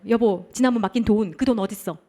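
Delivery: acted ominous questioning; scary spouse. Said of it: "진짜 무섭지 않아요".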